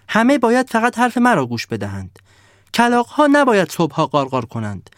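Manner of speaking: a spoiled snowman yelling demands; shouting snowman. Acted. Snowman lists his rules.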